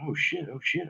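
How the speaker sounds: frightened thoughts in a breathless whisper; panicked whisper. Retold or imitated. Camper lying frozen beside a lurking creature, panicked whisper. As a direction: whisper it to yourself, scared to move.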